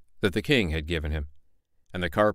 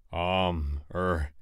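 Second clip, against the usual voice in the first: softer, halting hesitation; hesitant mayor; 4 semitones lower, 5 dB quieter than usual. Acted. Mayor hesitating over who should go first, unsure. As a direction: stall for time. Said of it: "said the mayor".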